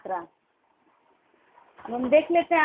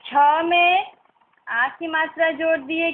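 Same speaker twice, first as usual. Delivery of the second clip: ordinary talk, nothing marked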